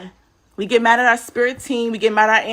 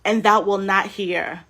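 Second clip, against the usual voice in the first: solemn scripture reading; slower than usual. Acted. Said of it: "Habakkuk literally says".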